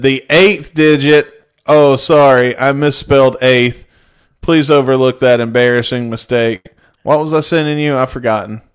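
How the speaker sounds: loud, fussily formal apology; a stuffy old gentleman, loud; fussy polite old man. Retold or imitated. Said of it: "and I said".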